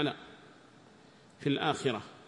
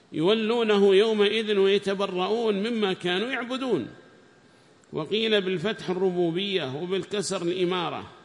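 raised, measured text-reading voice; reading aloud; 4 semitones higher, 5 dB louder than usual. Acted. Student reads the tafsir text to the teacher in a raised reading voice. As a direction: read the commentary out to the class.

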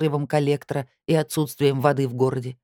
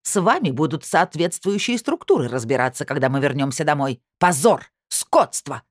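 outraged. Acted. Aurora rages on.

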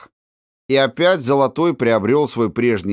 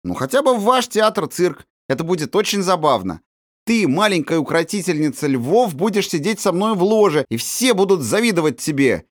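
high, proud little aristocrat; 9 semitones higher than usual. A narrator's reading. Princess promising Sibirochka the theatre box, proudly. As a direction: show off a bit, pleased with herself. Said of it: "не без некоторой доли гордости".

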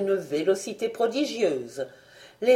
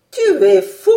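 loud, higher outburst of disbelief; scoffing cry, pitched up and forceful; incredulous shout; 5 semitones higher, 11 dB louder than usual. A narrator's reading. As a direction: shout it down as nonsense. Savant scoffs at Fred's claim.

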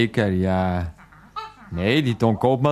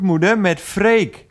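higher, drawn-out FREEK; insistent repeat; 4 semitones higher, slower than usual. Acted. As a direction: repeat your name emphatically, stretching it out. Repeats name for mother on phone. (nadrukkelijk herhaald)

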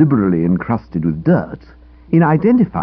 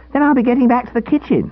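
high, eager schoolboy voice; cheeky boy scout; 12 semitones higher, faster than usual. A narrator's reading. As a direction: play the smug little scout, pleased with himself. Narrator voices Edwin.

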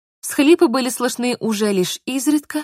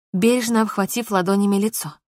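usual speaking voice

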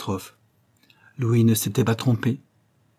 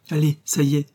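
bright, higher, upbeat call; cheerful tone; 5 semitones higher than usual. Acted. Odette closes the argument with the boy in a cheerful, higher tone. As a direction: lift the mood with a cheery push. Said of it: "d'un ton enjoué".

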